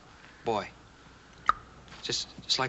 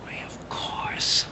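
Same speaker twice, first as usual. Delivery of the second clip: slow, breathless whispered wonder; awed whisper; much slower than usual. Real, not acted. Teacher whispering in wonder as it dawns on her. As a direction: whisper as the answer dawns on you.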